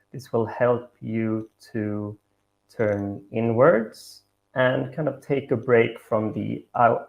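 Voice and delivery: measured meditation guidance with long pauses; guided meditation. Acted. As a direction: guide them gently, pausing between each instruction.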